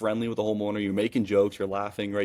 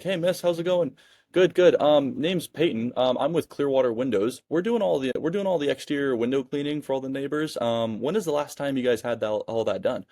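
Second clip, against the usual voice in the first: higher, rehearsed door-to-door sales spiel; salesman pitch; 3 semitones higher than usual. Shown as a demonstration. Demoing the wrong way to a homeowner, pushy salesman pitch. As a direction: sound like you're reading a script. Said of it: "you sound like a door-to-door salesman".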